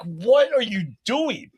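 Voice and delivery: high, drawn-out incredulous protest; mock bewilderment. Gamer to the roommate climbing on him, mock exasperated bewilderment.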